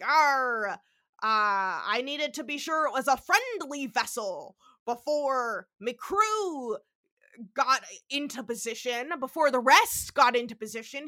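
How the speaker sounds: put-on half-hearted stock pirate accent; lightly put-on pirate talk, opening on "Arr". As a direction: roughly imitate a pirate's accent. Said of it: "I can't even do the accent".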